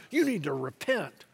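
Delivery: firm, mildly stern call to repentance; full-voiced but restrained admonition; old-school preacher's call. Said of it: "that old school kinda".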